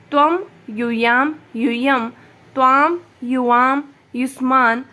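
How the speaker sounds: reading each Sanskrit form out loud, one by one; loud recitation drill. Shown as a demonstration. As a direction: call out every pronoun form clearly for the class. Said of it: "मतलब जोर जोर से बोलना है". (ज़ोर से उच्चारण करवाती हुई)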